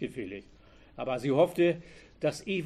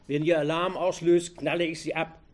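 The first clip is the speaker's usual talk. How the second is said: threatening; 2 semitones higher, 5 dB louder than usual. A narrator's reading. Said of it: "befahl er".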